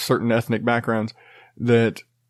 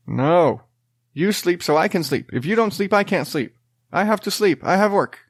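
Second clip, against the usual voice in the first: higher, desperate begging for sleep; pleading exhausted dad; 6 semitones higher than usual. Retold or imitated. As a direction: beg the kid to sleep, at wits' end. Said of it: "I'm just like".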